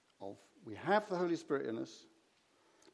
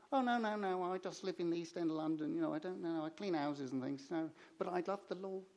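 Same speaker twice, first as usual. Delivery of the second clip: higher-pitched, lightly voiced Cockney lady; a hint of a humble Cockney churchgoer, pitched up; little Cockney lady; 4 semitones higher than usual. Cockney lady answers Jane after the service, lightly voiced, higher. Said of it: "little Cockney lady".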